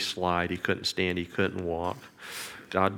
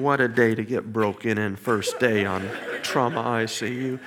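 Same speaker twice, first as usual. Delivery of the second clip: laughing aside; 4 dB louder than usual. Retold or imitated. Laughing thought amid tears.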